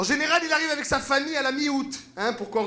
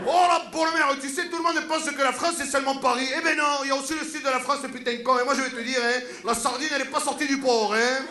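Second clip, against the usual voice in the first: put-on lightly done Marseille accent; a touch of Provence sing-song; southern French accent; 3 semitones higher than usual. Guy from Marseille boasting about the south, light southern French accent.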